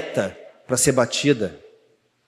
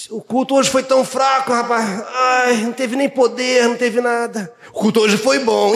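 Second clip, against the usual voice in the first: higher, sing-song whine about the service; grumbling churchgoer; 9 semitones higher than usual. Retold or imitated. Preacher mimics a grumbling member, sing-song and higher. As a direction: whine like a member who found church weak.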